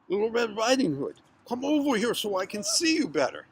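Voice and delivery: high, coaxing fake-granny voice; wolf posing as Grandma. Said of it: "pretending to be Grandma".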